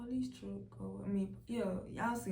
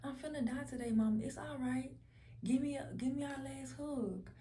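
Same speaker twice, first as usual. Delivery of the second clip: high, sweet, smiling goodbye; smiling farewell; 6 semitones higher than usual. Retold or imitated. Asking mama for a last hug, smiling. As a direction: say it through a serene smile, pitched up. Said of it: "saying it with a smile on my face".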